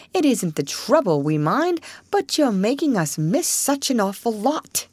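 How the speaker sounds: lightly voiced fussing rat; twitchy squeaking rat voice. Rat scolds Toad.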